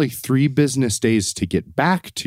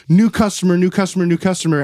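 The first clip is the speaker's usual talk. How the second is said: higher-pitched, exasperated repeating; pissed-off repetition; 5 semitones higher, faster than usual. Retold or imitated. Fed-up caller answering the automated service, pissed off. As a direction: repeat it impatiently at a phone robot. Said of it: "get even more pissed off".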